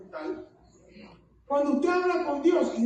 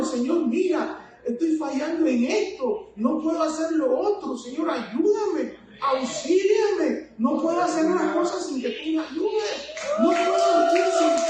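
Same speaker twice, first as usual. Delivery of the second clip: breaking voice in prayer; 3 semitones higher than usual. Retold or imitated. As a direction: let the voice break as you beg. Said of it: "Y me quiebro". (súplica que va subiendo hasta quebrarse la voz)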